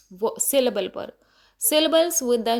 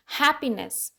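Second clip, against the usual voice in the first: हैप्पीनेस with weight on है; हैप्पीनेस, first syllable stressed. Shown as a demonstration. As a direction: lean on the है in हैप्पीनेस. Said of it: "है पे stress दिया गया".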